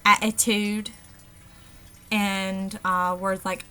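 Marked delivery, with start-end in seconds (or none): 0.1-0.9 "attitude" with the first t as a glottal stop, "a'itude". Shown as a demonstration. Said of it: "the glottal stop".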